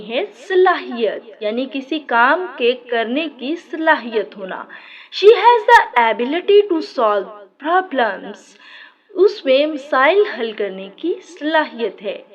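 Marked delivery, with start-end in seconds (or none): 5.1-8.5 slow example. Shown as a demonstration. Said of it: "example then slow repeat".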